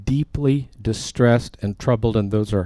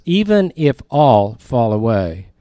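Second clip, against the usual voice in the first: slow, loud, proud vow; boastful quote; 5 dB louder, slower than usual. Retold or imitated. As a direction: lean on it like a boast. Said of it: "You see the slam in that?".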